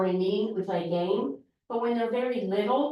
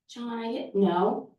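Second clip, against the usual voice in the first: slow, unsure "John, I didn't know." rising at the end; timid reply; 2 semitones higher, slower than usual. Shown as a demonstration. Child answering weakly before learning assertiveness, timid. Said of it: "practice our assertive voice".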